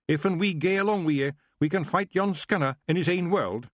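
high Scots wee-man voice, cheerful; a tiny Scottish warrior boasting; Feegle chieftain, proud. Acted. Rob keeps Feegle voice.

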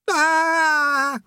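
a sudden high yelp of fright; panicked yelp. Acted. Rincewind plummeting, letting out a high yelp. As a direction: yelp in terror as you drop. Rincewind keeps yelling while falling.

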